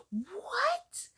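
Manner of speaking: breathy whispered, rising "What?"; whispered disbelief. Real, not acted. Reacting to the clip, a stunned whispered what. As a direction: whisper it like you can't believe it.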